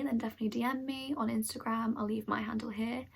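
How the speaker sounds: slightly breathless talking; winded, catching breath. Real, not acted. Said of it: "I'm getting out of breath".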